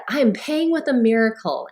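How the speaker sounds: said brightly through a big smile; beaming as she answers the cashier; answering the cashier with a confident smile. Retold or imitated. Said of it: "I said it with a big smile on my face".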